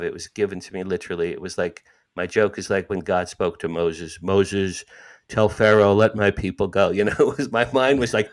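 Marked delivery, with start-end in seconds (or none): 4.2-6.9 louder, commanding divine decree; booming God voice. Pretend. Mock God commanding Moses, loud and grand. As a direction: proclaim it like God from above.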